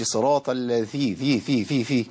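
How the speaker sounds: الذي with the ذ breathy like ث, drawn out; wrong reading demo. Shown as a demonstration. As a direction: show ذي slipping into a voiceless ث. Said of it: "أبدلتها بإيه".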